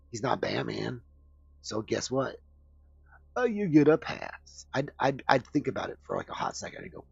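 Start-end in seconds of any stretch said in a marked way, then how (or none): 3.4-4.6 loud, slow, higher-pitched pronouncement; drawn-out verdict. Acted. Streamer grants a cartoon hero a pass, drawn-out verdict. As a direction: hand down the pass with a big drawn-out flourish. Mock-generous verdict on a character.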